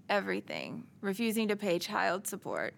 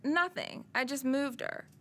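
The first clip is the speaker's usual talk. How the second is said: lightly voiced, higher dismissive husband; 5 semitones higher than usual. Drunk husband denying pushing the child, lightly mimicked and dismissive. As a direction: brush it off, a hint of the drunk ex. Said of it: "And he said".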